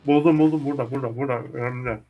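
loud panicked calls; frantic, loud, panicked; being chased. Real, not acted. Monster chasing in horror game.

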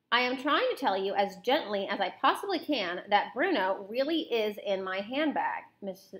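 animated read-aloud with character dialogue; lively storybook reading; story narration. A narrator's reading. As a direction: read a children's novel aloud expressively.

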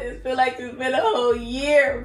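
excited return. Real, not acted. Excitedly greeting viewers after a break.

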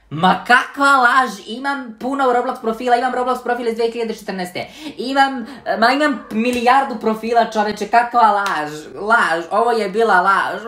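high, indignant denial; outraged protest. Real, not acted. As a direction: protest the verdict with disbelief. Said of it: "protests the app's verdict".

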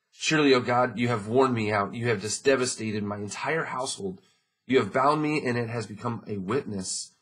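loud, ringing Bible reading; scripture reading. Acted. Pastor reading Job aloud to the congregation, ringing. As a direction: read Job's lament out loud to the church. Reads Job's lament.

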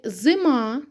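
зима with a lengthened МА; stress on final А. Shown as a demonstration. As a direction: lean on the last syllable of зима. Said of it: "наголошений".

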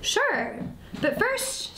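high, squeaky mouse voice; little mouse. A narrator's reading. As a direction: pipe up to stall the predator. Mouse stalls the weasel.

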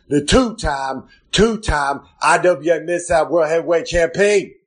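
a lightly hammed-up announcer voice; ring announcer intro. Wrestler persona reading his nicknames.

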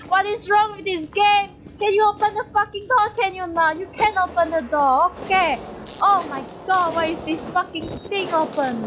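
screaming in exasperation. Real, not acted. Player railing at a locked door and dark room, agitated yelling. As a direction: rail at the game in rising panic. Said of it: "Why am I screaming?".

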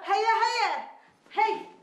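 high, hurried answering call; calling back. Acted. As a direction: call back that you are on the way. Calls back that she is coming.

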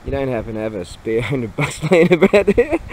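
cracking up through a retold plea; laughing request. Asking ex for spare money, laughing through it. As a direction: act out the ask, breaking into laughter. Acts out drunk begging call.

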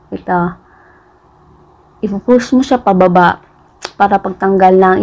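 slight lisp from retainer; with retainer in mouth. Real, not acted. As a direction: fingers touching teeth while talking. Seen 1: Wire retainer visible on front teeth while speaking, fingers pointing at it.

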